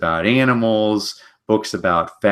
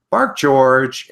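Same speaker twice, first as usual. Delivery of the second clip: mama dog; 6 semitones higher, 4 dB louder than usual. Acted. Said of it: "and the mama dog says".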